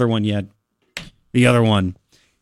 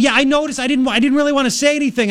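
retold yell back; 9 semitones higher, faster than usual. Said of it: "She yells".

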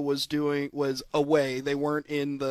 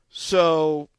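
awkward recovery; 2 semitones higher, 8 dB louder, slower than usual. Retold or imitated. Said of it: "to try and bring it back".

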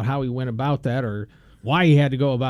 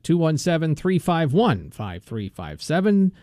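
slower, deliberate digits; careful restatement; 4 semitones higher, slower than usual. Shown as a demonstration. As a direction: spell out each number carefully. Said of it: "I want to restate that".

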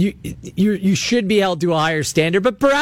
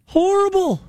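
disgusted; 12 semitones higher than usual. Real, not acted. Host scorning her losing record.

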